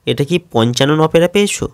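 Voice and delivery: lightly imitated teacher's mockery, quick; mocking sneer. Schoolmaster ridiculing Shankar's tall tale, mild quick mockery. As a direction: toss it off as a mild, fast jibe. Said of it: "ব্যঙ্গ করে তাকে বলেছিল".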